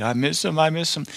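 high, pleading mock lament; mock grieving. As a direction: parody a mourner who won't let go. Mocking a grieving Christian.

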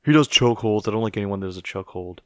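lightly voiced mock complaint; a hint of a bad impression; Philip. Podcaster mimicking his absent co-host, half-hearted impression. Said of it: "That's a terrible Philip impression".

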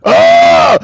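loud, high-pitched "aah"; high hammy yell. Pretend. Egging on the guitarist, high mock scream. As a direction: let out an over-the-top scream.

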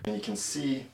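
distant, echoey room sound with hiss; recorded far from the mic in a bare room; echoey camera mic. Real, not acted. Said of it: "It's echoey, there's a lot of hiss".

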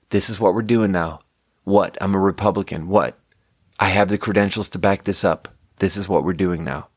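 a hint of a blunt politician; mock Nixon. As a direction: play a defiant president, lightly. Voicing Nixon being defiant.

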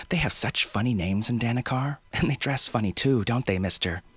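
put-on high, bubbling young girl voice; a thrilled child showing off; excited little girl. Girl character teasing.

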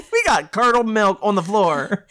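giggling through the line; laughing. Real, not acted. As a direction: laugh while saying it. Laughing joke.

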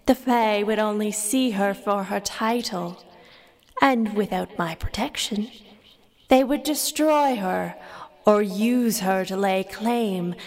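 fairy queen voice. Acted. Fey Queen speaks to Fingal.

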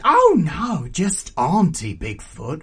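loud, high disclaimer dropping off; raucous auntie. Acted. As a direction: brush off the title as a brash aunt. Aunt waves away a title.

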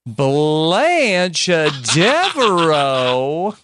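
slow drawn-out Southern belle Blanche Devereaux; better Southern accent. Shown as a demonstration. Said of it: "That's better".

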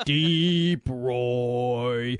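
long droning foghorn call; slow, held-out foghorn drone. Shown as a demonstration. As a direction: drag out each word like a foghorn. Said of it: "It's gonna be like a foghorn".

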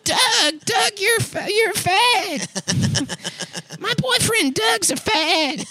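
put-on teasing girl voice. Voicing Patty teasing Doug.

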